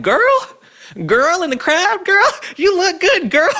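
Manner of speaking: very high, loud campy catcall; mocking Obama's crowd shout-out; mock flirty voice. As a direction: camp it up like a flirt. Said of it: "I've never heard a straight man be like".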